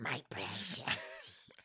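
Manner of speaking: slow, whispered creature hiss; breathy Gollum rasp, very slow. Retold or imitated. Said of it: "As is Gollum from Lord of the Rings".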